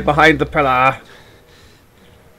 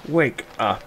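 softer, half-given-up wake-up call; subdued call; 6 dB quieter than usual. Pretend. Player tries sleepers once more, subdued call. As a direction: try softly to rouse someone.

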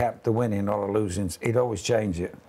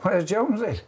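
mock Uruguayan accent; 9 semitones higher than usual. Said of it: "You can do the accent better than me".

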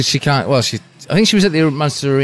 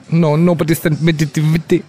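lightly voiced Irish mum, a bit higher; a hint of his elderly mother, protesting; mum's voice; 4 semitones higher than usual. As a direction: son doing his mum complaining nobody sent her the DVD, light mimicry. Son quoting his mum on phone.

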